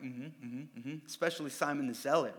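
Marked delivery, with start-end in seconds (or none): 0.0-1.1 muttered agreement. Retold or imitated. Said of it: "disciples going like".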